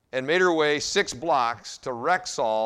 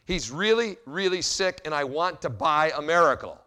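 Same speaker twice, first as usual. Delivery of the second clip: put-on little girl; 3 semitones higher than usual. Little girl begging the pharmacist, lightly voiced and earnest. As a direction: plead like a little girl for her brother.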